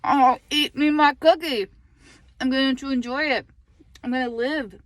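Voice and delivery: loud, high, sassy "uh-uh", no way; sassy defiance. Retold or imitated. Mom in car line voicing her defiant new self, loud and sassy. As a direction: declare it loudly with attitude, slowing on the cookie line. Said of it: "I'm like".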